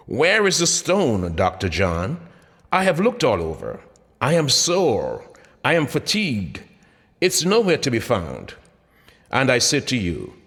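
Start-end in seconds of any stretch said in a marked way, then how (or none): 0.1-8.5 whining complaint. Acted. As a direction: whine like a sore, tired patient. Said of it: "whining and complaining".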